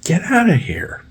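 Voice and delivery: high unvoiced hissed whisper; slow whispered order. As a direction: whisper it sharply. Telling him off again.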